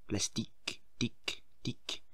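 unvoiced whisper, fading like an echo; hushed, voiceless echo. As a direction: whisper it as a soft, dying echo. Whispered echo of previous word.

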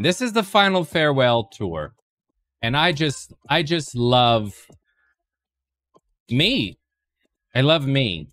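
mock grand farewell. Mock farewell tour proclamation.

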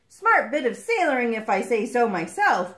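loud, self-satisfied boast; pleased with yourself, voice lifted; some pride. Acted. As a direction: congratulate yourself aloud. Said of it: "said to the egg with some pride".

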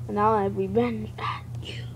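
whispered monster threat; creepy whisper. Acted. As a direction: breathe the threat like a villain.

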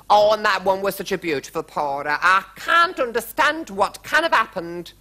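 high, plaintive royal dismay; high-pitched dramatic complaint; lamenting queen. A narrator's reading. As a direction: bemoan it as a baffled queen.

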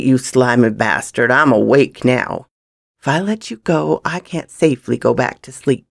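forceful, taunting threat; menacing gunman. Acted. Gunman refusing to let the young thief go, menacing.

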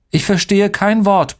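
high-pitched, defiant rebuff; defensive stonewalling. A narrator's reading. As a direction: block them off indignantly. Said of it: "blockte ich ab". (trotzig abblockend, mit hoher Stimme)

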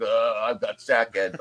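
slow mock groan on waking; groggy waking-up. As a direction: drag it out like someone just woken. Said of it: "you wake up, you're like".

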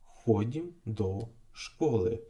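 slow, careful Slovak "Ходім до школи"; Slovak phrase. Shown as a demonstration. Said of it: "перевіряємо ці фрази".

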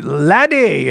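"laddie" in a put-on Irish accent; lightly imitated Irish lilt; mock Irish accent. Teller showing the real accents, mock Irish. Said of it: "those accents are real".

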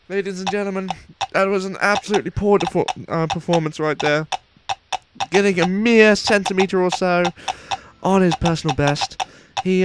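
lightly put-on posh sports commentator voice; understated mock commentator accent. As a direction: call it like a stuffy TV race announcer. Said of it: "this accent is very difficult to keep up".

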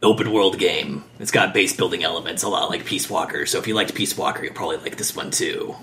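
gruff whispery Snake voice; Snake impression. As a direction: rasp it out like Solid Snake. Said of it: "This is not my best Snake impression ever".

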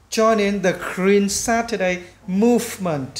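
slow, careful model sentence; measured reading for learners to copy; slow, word by word. Shown as a demonstration. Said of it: "mình nói chậm từng chữ". (nói chậm từng chữ)

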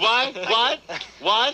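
put-on high, repeated childish query; mock deafness. Co-host mimicking how he talked over her, mock deafness. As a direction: pester with pretended deafness. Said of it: "She's trying to talk".

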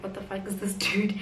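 unvoiced whisper of disbelief; whispered aside. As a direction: breathe it behind your hand, shocked. Girl mutters behind her back.

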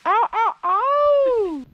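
sharp pained high cries; getting a leg cramp. Real, not acted. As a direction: cry out in sudden pain. Pain while spinning in poncho.

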